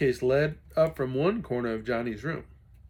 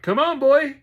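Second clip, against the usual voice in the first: high, loud plea to the pony; boy urging his pony to swim; urgent shout; 13 dB louder than usual. Acted. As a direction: yell encouragement over the water. Boy urges pony in flood.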